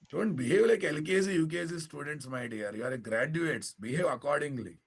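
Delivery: stern teacher scolding. Real, not acted. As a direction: dress down the class.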